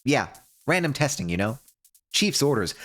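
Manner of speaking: a breezy cover story, lightly acted; casual crew member. Cassie calls Vanessa for a spot check, casual and breezy. Voices player character on call.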